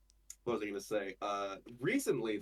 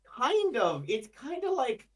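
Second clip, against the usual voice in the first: higher, louder British-style accent; put-on accent; 6 dB louder, slower than usual. Shown as a demonstration. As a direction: slide into a fancy put-on accent. Slipping into the demonstrated accent.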